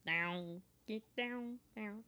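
robotic synth voice, drawn out; alien voice. Shown as a demonstration. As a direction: sing it like a vocoder. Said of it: "That's my synth impression".

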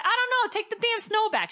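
high, loud comic protest; hammed-up fed-up outburst; mock exasperation. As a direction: protest it in a squeal. Acts out the snow argument.

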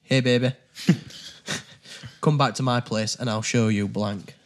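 Yorkshire accent. Shown as a demonstration. Player reading the card in their normal accent, Yorkshire. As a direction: own everyday Yorkshire come-on. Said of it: "In Yorkshire".

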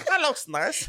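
very high, longing coo; craving. Retold or imitated. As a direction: gush over the food. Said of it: "it's like".

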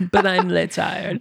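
slow, drawn-out French cartoon accent. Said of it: "that one line in that".

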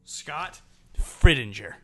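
slow, careful name reading; slow deliberate. Shown as a demonstration. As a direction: draw the name out slowly. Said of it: "say their names correctly".

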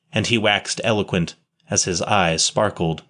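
ordinary delivery, nothing marked

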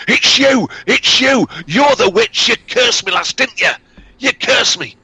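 very high, loud accusation; sick peddler recognising the witch; accusing shriek. Acted. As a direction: point and cry out in horror. Victim accuses the girl.

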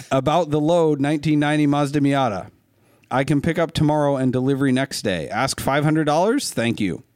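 imitating a Russian trucker, half-hearted; mock Russian trucker. Host mocking a Russian trucker's message, light Russian accent. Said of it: "I'm not gonna try to do a Russian accent".

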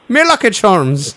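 put-on Irish accent. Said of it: "I was Irish for a second".

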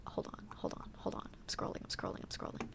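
breathy whisper while searching; whispering to herself. Real, not acted. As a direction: mutter it under your breath. Searching her notes mid-podcast.

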